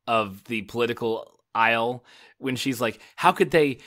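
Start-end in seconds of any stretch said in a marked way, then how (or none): 3.2-3.8 outraged whine. Retold or imitated. Quoting a distraught character's line.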